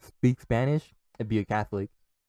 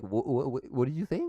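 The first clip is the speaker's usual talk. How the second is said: confused; 3 semitones higher than usual. Acted. Listener failing to understand the Spanish, mock confused. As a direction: stumble into a baffled question. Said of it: "people get confused".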